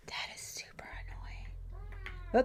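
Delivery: breathy annoyed whisper, slow; a slow whispered gripe. Real, not acted. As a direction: mutter it under your breath, drawn out. Annoyed aside to herself.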